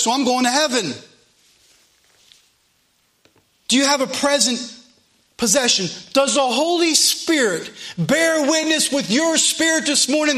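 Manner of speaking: urgent sermon questions to the congregation; impassioned pulpit delivery; fervent preaching. Real, not acted. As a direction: preach it hard, pressing each question home. Preaches at full force.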